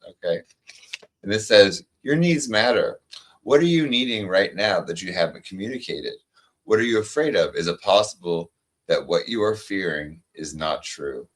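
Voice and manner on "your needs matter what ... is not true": card reading. Acted. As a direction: read it like a gentle affirmation, unhurried. Reads oracle card aloud.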